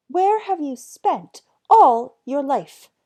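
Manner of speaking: mother's loud, slow, despairing groan; a groaning wail at her hopeless son; exasperated groan. Acted. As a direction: drag it out like a fed-up mother. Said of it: "groaned his mother".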